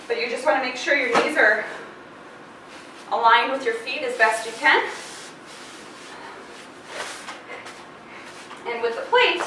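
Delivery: slightly winded after exercise; out of breath. Real, not acted. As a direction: talk while catching your breath. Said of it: "sorry, catching my breath from the last move".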